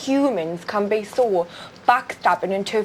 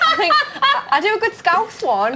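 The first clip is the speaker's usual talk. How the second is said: laughing; 12 semitones higher than usual. Real, not acted. Laughing while admitting.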